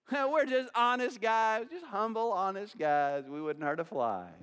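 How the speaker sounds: feigned humble honesty, pitch sinking toward the end; mock innocence. Preacher mimics the guilty brothers for the congregation, mock innocent.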